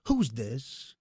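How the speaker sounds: loud, high impatient heckle; imitating Dice heckling a speech; Dice impression. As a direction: cut off the speech rudely, loud. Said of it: "Dice goes".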